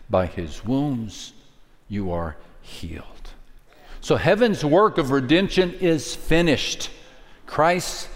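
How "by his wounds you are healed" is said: slow, dropping from soft to a whisper; fading to a whisper. Acted. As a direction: let the verse sink into a whisper. Scripture quote drops to whisper.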